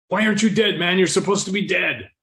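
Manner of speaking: high, loud, panicky disbelief; retelling the shooter's freak-out, voice jumping up. Retold or imitated. Gunman to the man he shot, yelling in panicky disbelief. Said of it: "he freaked out".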